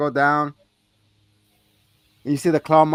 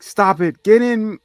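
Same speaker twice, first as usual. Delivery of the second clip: higher, louder retold order; mock urgent command; 7 semitones higher, 6 dB louder, slower than usual. Retelling Arnie intervening, mock urgent command. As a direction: raise pitch and volume as Arnie.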